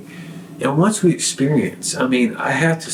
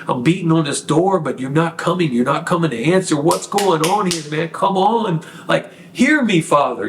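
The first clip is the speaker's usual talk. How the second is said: pleading, rising cry; 5 semitones higher than usual. Retold or imitated. David calling out to God.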